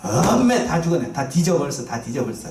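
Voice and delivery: acted Jeolla-dialect lament, trailing off; 전라도 말. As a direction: wail it in Jeolla dialect, sinking at the end. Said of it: "전라도 말로". (전라도 사투리로 한탄하듯, 끝은 힘없이)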